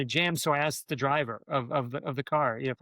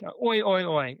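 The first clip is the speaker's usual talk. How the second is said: retold crowd yell; 5 semitones higher, 4 dB louder, much slower than usual. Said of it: "everybody will just yell back".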